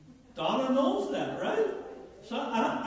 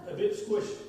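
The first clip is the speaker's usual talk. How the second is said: Newfoundland speech; 2 semitones higher than usual. Retold or imitated. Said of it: "To a Newfoundlander, we would say".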